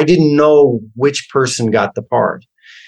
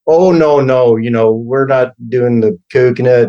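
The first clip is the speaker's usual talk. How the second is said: mock Philly accent, brushing it off; Philadelphia accent. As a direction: actor showing how a Philadelphian talks, in a light Philly accent. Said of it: "Philadelphia's accent".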